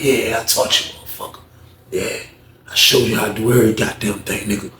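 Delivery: low, cocky imitated retort; talking like that. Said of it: "He started talking like that".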